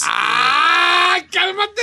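high, drawn-out teasing "oh please"; mock-impressed squeal; mocking outcry. Real, not acted. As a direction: deflate the boast with a high cry. Mocking a friend's boast of contacts.

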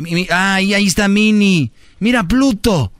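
playfully faked excitement; mock excited parent. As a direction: point out cartoon characters to a crying kid. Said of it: "como si fuera un niño".

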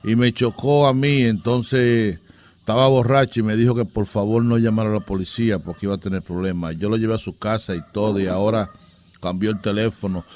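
low-pitched, put-on aggrieved caller; aggrieved crash victim. Prankster posing as the driver Juan supposedly hit, aggrieved.

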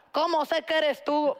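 doubting fan asks the actor if it's really him; starstruck fangirl. Retold or imitated. Starstruck fan asks her crush for proof, flustered. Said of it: "yo en fan loca".

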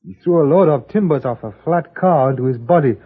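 put-on Chinese accent. Chinese character, stereotyped accent.

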